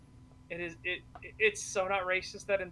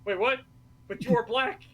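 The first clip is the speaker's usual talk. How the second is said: louder, rushing, baffled; a retold custodian losing the thread, louder and quicker; mock confused outburst; 3 semitones higher, 6 dB louder, faster than usual. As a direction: stumble through it like he can't follow. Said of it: "He's like".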